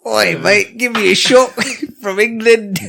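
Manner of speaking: bad Australian accent, cheeky; jokey fake Australian accent; mock Australian accent. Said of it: "That's Australia".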